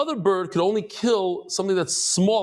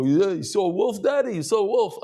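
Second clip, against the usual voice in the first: higher-pitched teasing question; mocking tease; 4 semitones higher than usual. Family teasing father about the wolf he saw, mocking. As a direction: poke fun at Dad, pitch climbing. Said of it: "they make fun of me".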